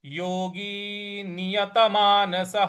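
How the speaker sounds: नियतमानसः ending in a soft ha; slow careful योगी नियतमानसः; visarga demo. Shown as a demonstration. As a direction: breathe out the ः in नियतमानसः as ha. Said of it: "उसका ह का उच्चारण ले आएंगे।".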